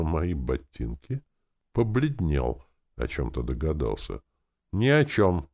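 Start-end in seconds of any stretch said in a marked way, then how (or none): 4.7-5.5 flat-out louder denial; a hint of final, no-argument tone; categorical. A narrator's reading. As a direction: end the subject firmly. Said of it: "заявил я категорично".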